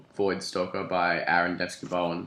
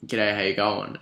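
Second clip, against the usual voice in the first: put-on Aussie. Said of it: "And he just says".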